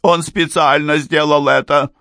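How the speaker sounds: high, tearful accusation; angry sobbing. A narrator's reading. Mrs. Amberley insists he did it on purpose, angry and tearful. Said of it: "всё так же сердито всхлипывая".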